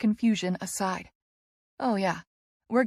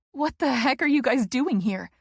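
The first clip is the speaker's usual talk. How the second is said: 1 happy cry; 4 semitones higher than usual. A narrator's reading. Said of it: "I cry".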